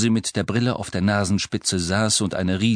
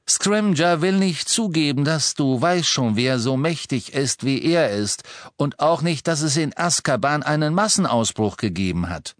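Mr Weasley, ernst erklärend; 6 semitones higher than usual. Acted. Mr Weasley erklärt Harry die Lage.

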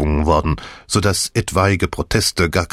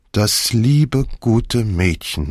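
touched murmur; 3 semitones higher, much slower than usual. A narrator's reading. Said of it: "murmelte Misses Croft und führte gerührt".

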